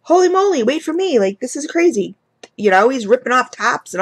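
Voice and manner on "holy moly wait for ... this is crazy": high-pitched retold panic; half-joking frantic pleading to wait; mock freaking out. Mom begs her son to wait before ripping everything open, high mock panic. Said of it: "I'm freaking out".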